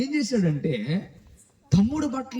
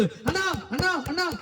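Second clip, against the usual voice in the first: crying; 9 semitones higher than usual. Acted. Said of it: "ఏడుస్తూ".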